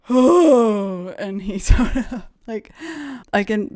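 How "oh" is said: loud drawn-out "oh", imitating the actor; imitated doubled-over "oh". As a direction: let out a big exhaled "oh" as he did. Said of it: "doubled over and went".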